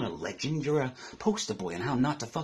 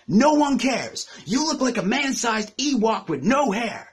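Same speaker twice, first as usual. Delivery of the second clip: high, slow, drawn-out jeer; emphatic put-down; 6 semitones higher, 4 dB louder, slower than usual. Acted. Battle rapper dismissing rival's comeback, emphatic put-down. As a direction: stretch it out high and louder. Answers own mock hype with insult.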